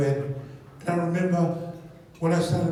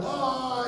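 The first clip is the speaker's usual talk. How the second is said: high drawn-out death moan; hammed-up dying cry; mock dying groan; 6 semitones higher than usual. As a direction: pretend to die from a shot. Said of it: "when I died".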